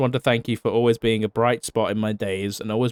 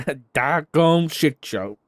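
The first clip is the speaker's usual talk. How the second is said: laughing; 5 semitones higher, 3 dB louder, much slower than usual. Real, not acted. Laughing through a joking insult.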